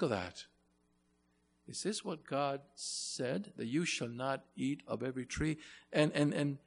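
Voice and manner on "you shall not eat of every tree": "not" set apart and firmly weighted; stress on not. Retold or imitated. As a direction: lean on "not" as the forbidding word. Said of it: "and emphasize that word "not".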